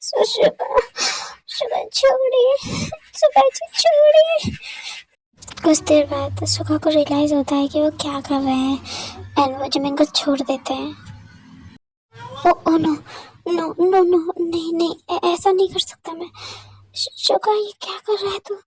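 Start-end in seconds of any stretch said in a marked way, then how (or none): 0.0-4.6 much higher, tearful pleading cries; crying in pain. Acted. 12.5-18.6 higher, shocked scolding of himself; horrified, talking himself down; panicked self-scolding. Acted.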